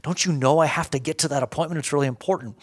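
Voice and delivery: hammed-up frustration at a traffic jam; imitating road rage. Driver stuck in traffic, late for an appointment, complaining to God in mock exasperation. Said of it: "the anger and the frustration sort of boiling up".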